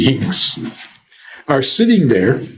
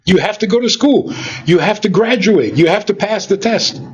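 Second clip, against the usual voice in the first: higher, fast, nagging list of demands; lightly voiced nagging parent; demanding elder; 5 semitones higher than usual. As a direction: rattle off the rules like a parent.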